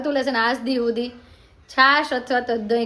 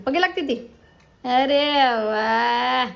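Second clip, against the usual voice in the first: delighted surprise; slower than usual. Real, not acted. Mother delighted her baby folded hands. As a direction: pitch jumps up in happy surprise.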